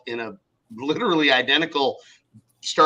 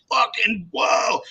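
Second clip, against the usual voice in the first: high, slow, drawn-out mock awe; stretched-out, raised-pitch wow; retold amazement; 7 semitones higher, much slower than usual. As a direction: imitate an onlooker being blown away. Retold onlookers' amazed reaction.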